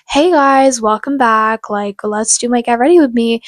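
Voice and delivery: put-on American vlogger accent. Vlogger opening an imagined get ready with me, in an American accent. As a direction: greet viewers in an American accent. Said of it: "automatically shift to this accent".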